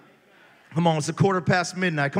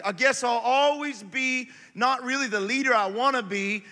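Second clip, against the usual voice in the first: defeated believer; 5 semitones higher than usual. Retold or imitated. Voicing defeated churchgoers.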